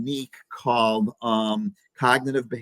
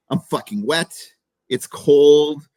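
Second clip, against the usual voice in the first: mock whining rant; 5 semitones higher than usual. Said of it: "They go".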